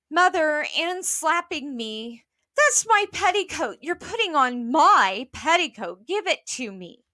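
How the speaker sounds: a hint of a wronged little girl; tattling child. Child tattling during quarrel.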